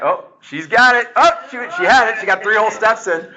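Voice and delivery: high, excited play-by-play. Real, not acted. Excited game commentary.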